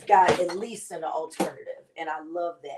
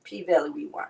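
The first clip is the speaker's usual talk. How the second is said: Uncle Cliff's way. Retold or imitated. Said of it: "That's how Uncle Cliff would say it".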